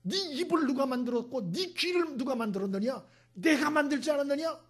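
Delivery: stern, high-pitched telling-off; acted scolding. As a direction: scold with high, forceful rhetorical questions. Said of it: "그래서 하나님이 야단을 쳤어요".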